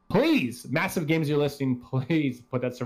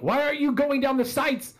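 mock yell; 12 semitones higher than usual. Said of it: "I yell at her sometimes".

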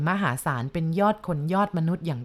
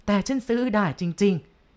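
slow and firm; much slower than usual. Acted. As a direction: lay each word down slowly, certain. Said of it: "เศรษฐีตอบอย่างหนักแน่น".

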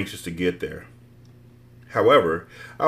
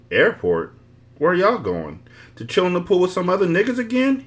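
bad attitude; 9 semitones higher than usual. A narrator's reading. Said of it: "he asked with a bad attitude".

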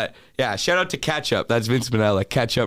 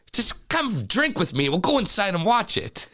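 luring spirit whisper; 11 semitones higher than usual. Retold or imitated. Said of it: "He goes".

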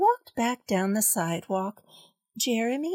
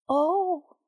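sweet soft voice; 6 semitones higher than usual. A narrator's reading. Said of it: "in a sweet, soft voice".

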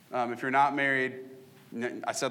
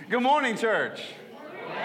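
high-pitched greeting; 8 semitones higher than usual. Real, not acted. Pastor retries his greeting to the congregation, voice high. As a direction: greet the room again with the voice jumping up high. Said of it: "my voice went that high".

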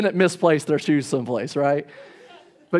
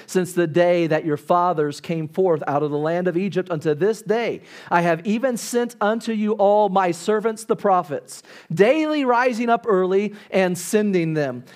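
measured, deliberate King James reading; scripture reading. Acted. Preacher reading Nehemiah to the congregation, solemn and measured.

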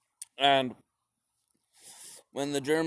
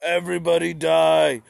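mock Stalin; 2 semitones higher, 5 dB louder, slower than usual. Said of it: "and he's like".

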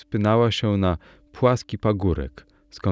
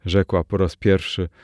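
plain reading voice

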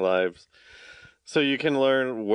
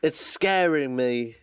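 put-on British accent; 2 semitones higher, slower than usual. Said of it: "we just did every dialect".

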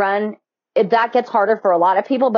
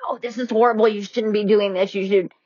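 negative inner voice; 3 dB quieter than usual. Retold or imitated. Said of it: "And one's going".

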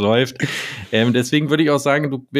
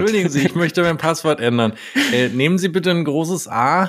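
higher, overly polite phone request; polite hotline caller; 6 semitones higher than usual. Pretend. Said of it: "wenn ich an der Hotline bei Apple bin".

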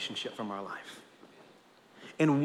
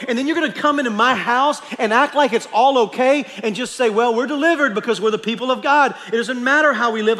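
loud, higher, incredulous God voice with laughs; exasperated God; 7 semitones higher, 7 dB louder than usual. Acted. Preacher voicing God scolding hypocrites, loud and incredulous. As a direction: voice God's disbelief at his people. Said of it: "Lord's saying".

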